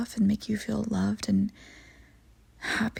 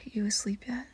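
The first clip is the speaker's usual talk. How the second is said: unvoiced, much softer whispered question; 8 dB quieter than usual. Checking whether the sleepy partner has dozed off, whispered. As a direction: whisper it so as not to wake them.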